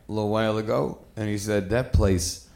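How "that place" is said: low, slow, meek delivery; quietly resigned mimicry of a friend; passive friend. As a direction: say it deflated, trailing down low. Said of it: "friend who's a real passive dude".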